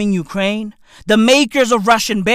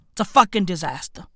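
normal talking voice

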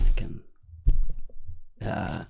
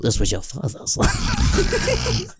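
much higher, slow, collapsing into a laugh; tender attempt breaking into laughter; much slower than usual. Shown as a demonstration. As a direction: try it tenderly but crack up midway. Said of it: "A little bit more tender".

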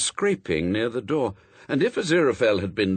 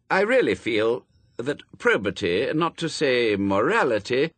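slightly raised, earnest formality; protesting angel; 4 semitones higher, 3 dB louder than usual. Acted. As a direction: stand on dignity in a lightly pompous protest. Angel draws himself up, protests.

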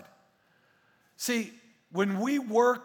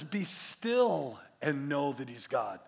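gentle scripture; 6 semitones lower, 6 dB quieter, slower than usual. Shown as a demonstration.

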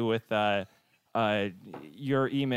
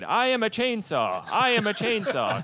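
chainsaw impression; 8 semitones higher, slower than usual. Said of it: "that's my impression of a chainsaw".

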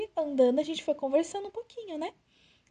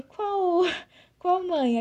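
higher, louder shocked laughing question; 6 semitones higher, 5 dB louder, much slower than usual. Retold or imitated. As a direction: blurt it out through a laugh, stunned. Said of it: "aí eu falei". (pergunta chocada e mais alta, rindo)

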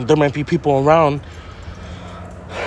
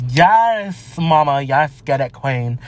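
flamboyant guy; much slower than usual. Retold or imitated. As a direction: stretch the "yes" like a flamboyant hype man. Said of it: "a flamboyant guy either".

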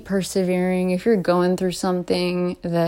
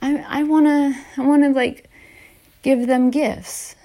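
put-on higher, eager little-kid voice; 5 semitones higher than usual. Young child planning gifts for family, eager higher kid voice. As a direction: play her young self planning secret gifts, pitched up. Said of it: "I was like".

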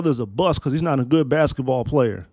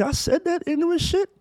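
squeaky high disbelief, much higher; incredulous; 13 semitones higher than usual. Real, not acted. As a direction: shriek of self-mocking disbelief. Cringing at his old post.

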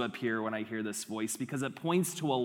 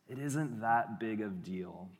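slow, soft coaxing tempter; 4 semitones lower, 5 dB quieter than usual. Acted. Serpent tempting in the garden, soft and slow. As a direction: shrug it off gently, drawn out.

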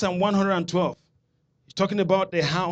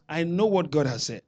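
half-hearted "I know what God has said"; limp claim. Shown as a demonstration. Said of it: "That's not a confession".

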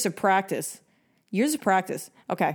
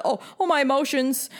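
mocking a jealous girl; 5 semitones higher than usual. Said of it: "Forget about".

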